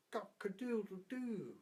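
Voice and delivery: high, drawn-out rooster crow; cockerel crow. Acted. Cockerel crows.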